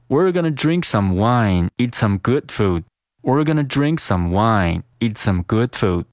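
"eat some good food" run together, d's unreleased; linked reading. Shown as a demonstration. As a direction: read smoothly linked, "eat some" as one word. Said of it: "我们连读一下".

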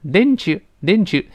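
didn't you linked with a short, weak chu; high, slow didn-chu, you kept light; weak-form didn't you. Shown as a demonstration. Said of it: "代词往往就弱化". (didn't you连读，代词弱化)

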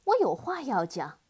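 loud, firm call to the demon; shout. Acted. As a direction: speak up bravely and loudly. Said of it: "对黑蜂王大喊".

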